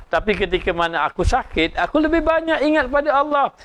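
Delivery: a hint of a sick man cheerfully correcting his friend; contented sick man.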